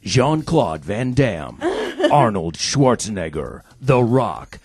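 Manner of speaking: booming trailer announcer, rising to a shout; movie trailer voice. Acted. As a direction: hype it up like a trailer. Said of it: "I got one for Trevor".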